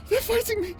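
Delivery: strained crying. Acted. Struggling against inner forces.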